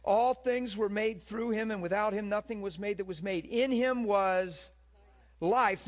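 scripture reading. Acted. Preacher proclaiming John chapter one, loud and high. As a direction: proclaim the gospel to the hall.

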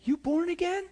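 high, loud amazed question. Retold or imitated. Preacher astonished at the coworker's conversion. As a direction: ask in astonishment. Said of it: "I'm like".

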